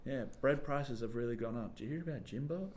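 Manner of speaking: softly voiced chatting peasant; idle market chatter sliding into gossip; village gossip. Villager swaps news with a neighbour, hushed gossip. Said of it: "they'd be talking".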